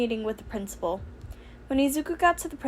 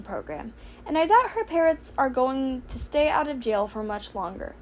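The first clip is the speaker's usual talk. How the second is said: Nezu sadly; 3 semitones higher than usual. Acted. Principal telling Izuku about Toga, mildly sad. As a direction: lift it up and let it sag a little. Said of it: "Nezu sighed sadly".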